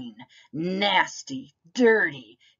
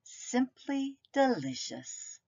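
put-on satisfied child voice; 5 semitones higher, 5 dB quieter than usual. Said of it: "and said".

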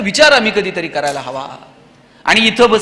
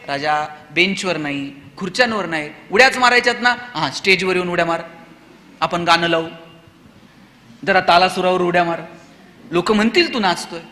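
put-on softer, lower teacher coaxing a child; gentle coaxing; 5 semitones lower, 5 dB quieter than usual. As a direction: redirect the child calmly, without scolding.

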